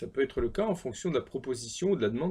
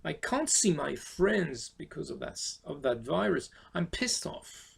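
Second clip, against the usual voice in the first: annoyed; 3 semitones higher, slower than usual. Shown as a demonstration. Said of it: "vous êtes très énervé".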